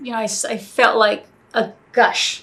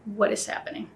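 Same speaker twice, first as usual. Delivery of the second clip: retold freak-out; 10 dB quieter than usual. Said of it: "I started freaking out".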